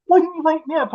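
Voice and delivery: high-pitched mock complaint; imitating woken partner. Man retelling partner's complaint after phone hit her face, mock whine. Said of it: "And she's like".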